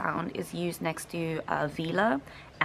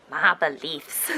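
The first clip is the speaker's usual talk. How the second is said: slow mock South African accent; drawn-out imitation of botched South African; mimicked South African accent; 5 dB louder, slower than usual. Mimics the actor's line, then laughs.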